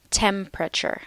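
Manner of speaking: "Temperature" as TEM-pruh-chur, middle vowels merged, falling at the end; three-syllable pronunciation. Shown as a demonstration. Teacher showing learners that "Temperature" has three syllables, three-syllable pronunciation. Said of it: "temperature has three syllables".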